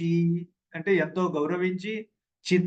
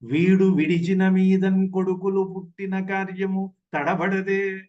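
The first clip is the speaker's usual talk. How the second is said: poem recitation. Acted. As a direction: intone the padyam line, rounded and sustained.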